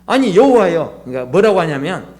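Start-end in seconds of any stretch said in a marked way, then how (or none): 0.1-1.0 raised, louder mock-angry appeal; mildly hammed-up indignant complaint; angry protest. Jonah protesting to God, in a retold angry outburst. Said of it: "성을 내면서".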